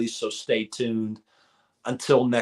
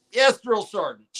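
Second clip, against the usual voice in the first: higher crisp recruit reply; 10 semitones higher, 4 dB louder than usual. Retold or imitated. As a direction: snap back like a private. Recruit answering drill sergeant.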